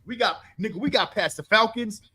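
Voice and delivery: a high whoop settling into giddy bragging; hammed-up locker-room cheer; mock whooping. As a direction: whoop it up like the cameras are off. Players celebrating once the cameras are out.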